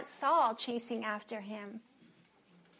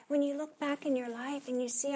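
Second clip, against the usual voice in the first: usual speaking voice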